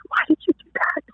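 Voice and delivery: high, thin retold question; tearful question. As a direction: ask it as if through tears. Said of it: "she had tears in her eyes".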